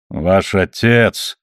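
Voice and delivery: slow, drawn-out scorn; mocking. A narrator's reading. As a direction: sneer at her father slowly. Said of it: "насмешливо произнёс он". (медленно, насмешливо)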